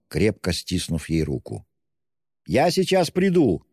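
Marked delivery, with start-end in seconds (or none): 2.4-3.6 high, called-out shout. A narrator's reading. Friend calling to the stricken mother, high shout. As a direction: call it out high as he runs. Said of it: "крикнул он".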